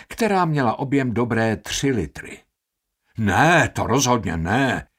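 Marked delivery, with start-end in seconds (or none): 3.2-4.9 louder horrified outburst; aghast cry. Acted. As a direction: cry out in alarm. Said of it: "vykřikl Baldini zděšeně". (zděšené vykřiknutí)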